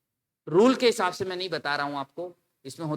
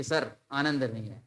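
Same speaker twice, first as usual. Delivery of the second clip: mock student complaint; 7 semitones lower, 5 dB quieter than usual. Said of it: "तो बताना कि".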